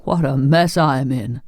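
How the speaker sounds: glum Scarecrow voice, gently woeful; doleful. A narrator's reading. Scarecrow smeared with polish, mildly doleful. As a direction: bemoan it in a lightly put-on voice. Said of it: "said the Scarecrow dolefully".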